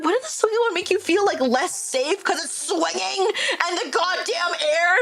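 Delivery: high, incredulous retold reply; acted squeaky exasperation; exasperated disbelief. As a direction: question it in mock disbelief.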